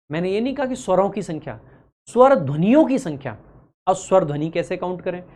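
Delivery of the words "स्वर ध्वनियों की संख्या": ध्वनियों punched louder to correct a mix-up; stress on ध्वनियों. Shown as a demonstration. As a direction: hit the word ध्वनियों firmly. Correcting a likely mishearing of term. (ध्वनियों पर ज़ोर)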